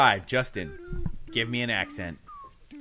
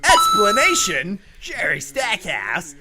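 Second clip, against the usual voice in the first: put-on Australian accent; 4 semitones higher than usual. Quiz host reads the explanation in a mock Australian accent. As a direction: keep the mock Aussie read going.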